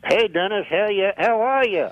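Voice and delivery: lightly voiced ventriloquist's dummy; a hint of a puppet character. Puppet greeting the radio host, lightly put-on dummy voice. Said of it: "you and the puppet's voice".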